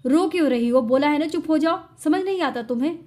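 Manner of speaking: loud, sharp angry scolding. Acted. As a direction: snap at her to stop crying. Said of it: "उसे गुस्सा आ जाता है".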